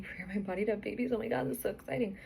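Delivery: quick, thrilled rush; excited. Retold or imitated. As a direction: gush with delight. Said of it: "and I'm thinking".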